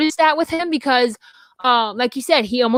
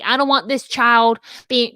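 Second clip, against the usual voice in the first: put-on Southern US accent. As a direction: voice her lightly as a Southern woman. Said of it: "that was so Southern".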